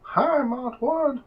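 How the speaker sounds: high, slow squeaky rat. Acted. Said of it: "This is my rat voice".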